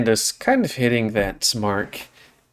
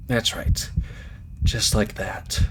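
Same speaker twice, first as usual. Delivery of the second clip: soft coaching; 5 dB quieter, slower than usual. Acted. Friend calms his breathing.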